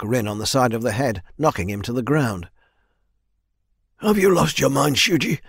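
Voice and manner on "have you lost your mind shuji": high, loud, shocked protest; outraged. A narrator's reading. Swordswoman confronting the man who struck, outraged. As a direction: demand an answer, climbing higher and louder. Outraged at soldier striking the leader.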